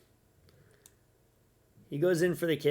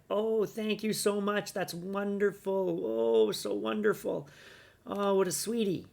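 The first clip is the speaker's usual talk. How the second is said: higher, slow, syrupy gushing; mock gushing gratitude; 6 semitones higher, slower than usual. Mocking the woman thanking her rescuer, slow gushing. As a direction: swoon over the rescuer in a mocking falsetto. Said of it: "And then she's like".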